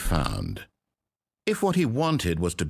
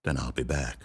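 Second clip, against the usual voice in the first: ominous echoing villain threat; a menacing narrator turned villain; booming echoing villain monologue; 3 semitones lower, 6 dB louder than usual. Acted. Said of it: "It sounds like a villain like this".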